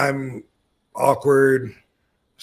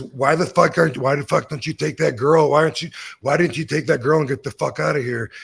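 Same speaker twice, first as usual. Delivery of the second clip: retold loud scolding; 3 semitones higher, 4 dB louder, faster than usual. Wrestler scolding him, retold.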